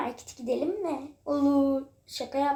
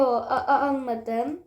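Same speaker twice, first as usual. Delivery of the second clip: stammering; slower than usual. Pretend. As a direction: fake stammer on a-.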